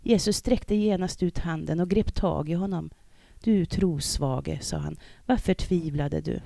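measured, formal reading of the gospel; scripture reading. Acted. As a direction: read the Bible text to the congregation. Reads the gospel text aloud.

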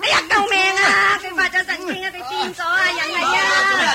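loud, high alarmed cries; mother grabbed by a man gone mad, yells for help; calling for help. Acted. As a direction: shout for help, frightened.

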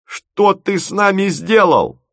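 high, slow wailing question; moaning reproach. A narrator's reading. Bride demands answers from the inventor, moaning. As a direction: wail it slowly, pitched high. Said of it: "простонала Тося".

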